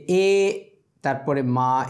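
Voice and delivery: drawn-out এ, then a separate মা; sounding out M. Shown as a demonstration. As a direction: stretch এ, then say মা on its own. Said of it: "এম উচ্চারণ করতে গেলে". (এ আর মা আলাদা করে টেনে উচ্চারণ)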